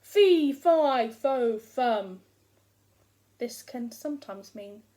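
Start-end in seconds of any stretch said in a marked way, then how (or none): 0.0-2.2 loud giant chant called out; calling for the hidden boy. Acted. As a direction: boom it across the house. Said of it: "I called out".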